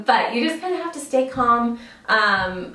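ordinary talk

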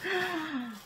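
very high, giddy excitement; real excitement. Real, not acted. Opening a handmade gift from a friend, squealing with excitement. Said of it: "I'm so excited".

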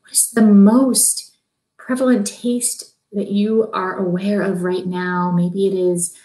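calm, unhurried meditation voice; guided meditation. Acted. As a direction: soothe them into stillness, gently. Leads a guided breathing meditation.

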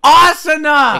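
very high, loud, slow shriek; startled screaming. Acted. Kalen snaps awake beside Jet, high horrified scream. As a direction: scream in exaggerated horror.

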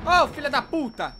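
loud angry yell, slow and heavy; furious outburst. Real, not acted. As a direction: explode at the enemy. (xingamento furioso)

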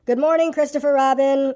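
calling out. A narrator's reading. Pooh greeting Christopher Robin, calling out. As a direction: call out a morning hello in a high voice. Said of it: "he called out".

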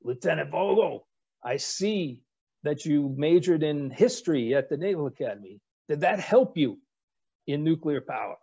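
retelling the admiral's question in a hint of his Rickover accent. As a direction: mimic the admiral's accent, half in jest. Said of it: "well, maybe I should do an accent".

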